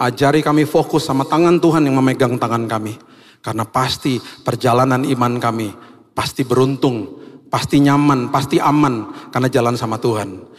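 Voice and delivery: earnest, steady prayer with measured phrasing; congregational prayer. Real, not acted. Pastor prays to God for the congregation, earnest and steady. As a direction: lead the congregation sincerely in prayer.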